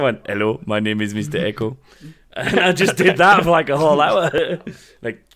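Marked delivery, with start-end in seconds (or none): 0.3-1.8 Mister Echo voice. Retold or imitated. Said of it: "doing the voice of Mister Echo from Lost".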